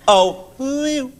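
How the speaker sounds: mock monkey ooh. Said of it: "the sort of noise John Major would have made".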